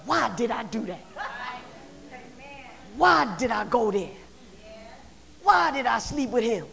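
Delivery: soft, fast self-reproach; quiet regret. Acted. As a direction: mutter it to yourself. Inner voice of regret.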